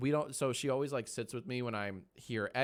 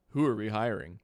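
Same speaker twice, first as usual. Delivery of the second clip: loud hype question; 7 dB louder than usual. Acted.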